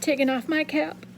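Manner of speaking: steady reading-aloud voice, lively for the figures; story narration. A narrator's reading. Teacher reading a novel chapter aloud to students, expressive narration. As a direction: read the chapter to the class like a storyteller.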